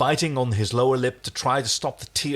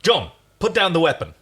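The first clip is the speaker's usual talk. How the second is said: raised voice, firm order; a louder warning to put the gun down; loud command; 7 semitones higher, 5 dB louder than usual. Acted. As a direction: call it out to stop him. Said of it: "said Aaron loudly".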